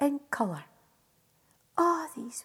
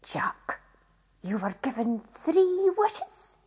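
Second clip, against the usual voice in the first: gritted teeth; 2 semitones lower, slower than usual. Acted. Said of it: "she said with gritted teeth".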